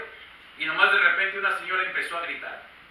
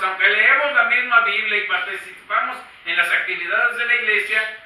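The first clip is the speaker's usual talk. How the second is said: louder, pressing sermon voice with rising insistence; full-force preaching; 4 semitones higher, 7 dB louder than usual. Acted. Pastor warning the congregation about the Nicolaitans, preaching hard. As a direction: drive the warning home to the church.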